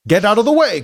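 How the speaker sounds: annoyed Robotnik. Acted. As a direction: bark at the minion. Robotnik angry at Crockbot.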